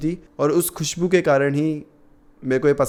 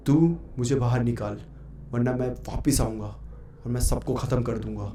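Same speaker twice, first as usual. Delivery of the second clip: heavy demonic voice; 4 dB quieter than usual. Retold or imitated. Spirit speaking through the girl to her brother, mild heavy menace. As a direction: threaten quietly like the spirit inside her. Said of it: "एकदम से ऐसे भारी आवाज़ में जाता है".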